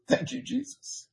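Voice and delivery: high, very soft praise; hushed thanks. Real, not acted. Preacher thanks Jesus after whooping, hushed. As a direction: thank him softly, high and light.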